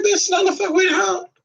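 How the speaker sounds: retold sassy refusal. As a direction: toss off the refusal with sass. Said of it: "I said".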